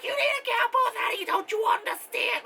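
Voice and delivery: high, breathy whispered gushing; imitating the fan in a whisper; whispered mock version. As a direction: hush it like a secret plea. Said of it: "not minus the accent".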